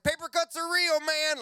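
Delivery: high, shouted, hammed-up protest; mock battle cry. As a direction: shout it like a desk warrior's war cry. Mock rallying cry of desk airmen.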